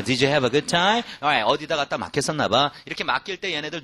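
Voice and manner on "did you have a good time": very slow "Did you have a good time?"; slower repeat. Shown as a demonstration. Teacher repeats slower for students to shadow. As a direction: draw it out so they can follow. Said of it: "한번 더".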